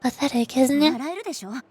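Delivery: lightly voiced young narrator, earnest and regretful; reading character lines. Streamer reading a game character's confession, earnest.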